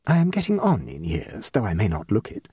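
measured, stately hostess voice; slow and impressive. A narrator's reading. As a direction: state your case like a minister addressing parliament. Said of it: "she spoke slowly and impressively, with the air of a minister".

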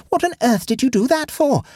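very high-pitched, shocked question; aghast gasp. A narrator's reading. Nephew to uncle who burned the evidence, aghast gasp. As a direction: gasp it out in high-voiced disbelief. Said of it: "gasped Egbert".

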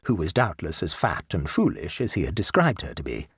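ordinary delivery, nothing marked

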